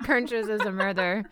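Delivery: mock accent with heavy R's in every vowel; exaggerated R accent. Shown as a demonstration. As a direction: lean hard on the R's in a silly accent. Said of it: "speak with those R's".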